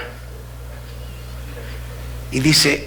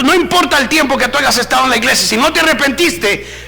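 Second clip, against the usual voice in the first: urgent, raised pulpit voice; forceful preaching; 6 semitones higher than usual. Real, not acted. Preacher warning church to correct sinning brothers, forceful. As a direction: preach it hard, voice lifted high.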